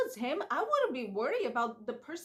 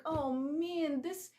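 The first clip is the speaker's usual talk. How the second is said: incredulous; 4 semitones higher than usual. Retold or imitated. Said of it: "I was like".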